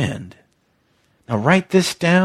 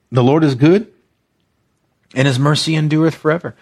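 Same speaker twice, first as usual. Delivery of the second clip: proclamation; faster than usual. Shown as a demonstration. Pastor reciting the verse as a proclamation. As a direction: proclaim it like the people did. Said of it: "Let's say it like this".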